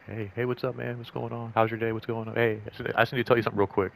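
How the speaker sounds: a hint of a chummy patrol cop; cop style. Two cruisers side by side in a parking lot, chummy cop small talk. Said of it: "We were gonna do, like, cop style".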